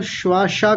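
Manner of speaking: "श्वासा" said as shwaa-shaa; mistaken palatal sh. Shown as a demonstration. Teacher repeating student's slip, sh-sh in "श्वासा". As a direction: put sh in both syllables of "श्वासा". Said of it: "तालव्य शकार आ गए".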